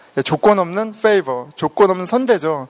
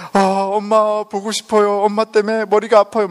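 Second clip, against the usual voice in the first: imitated childhood wailing; 4 semitones higher than usual. Speaker as a small child missing mom, mock tearful whine. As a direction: whine like a homesick little kid. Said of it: "막 길에서 막 울고".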